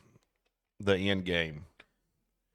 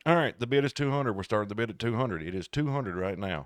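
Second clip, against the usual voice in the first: slow auctioneer. Shown as a demonstration. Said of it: "why could an auction not just go".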